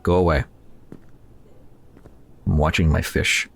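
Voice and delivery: ordinary talk, nothing marked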